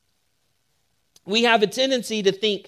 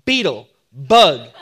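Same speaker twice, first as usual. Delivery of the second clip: low, laughing zhuk, beetle, bug; rueful laugh; 6 semitones lower, 4 dB louder than usual. Retold or imitated. Pastor laughs at calling himself a beetle, low rueful laugh. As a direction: chuckle at your own blunder, pitched down.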